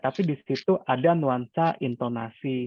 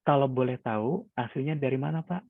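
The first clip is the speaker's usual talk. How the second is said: calm polite asking; 3 dB quieter than usual. Shown as a demonstration. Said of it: "ada intonasi-intonasi yang memang kita desain".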